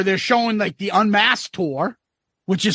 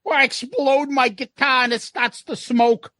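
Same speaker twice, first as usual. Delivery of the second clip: a guitarist's voice; 5 semitones higher than usual. Retold or imitated. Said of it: "then they asked the guitarist".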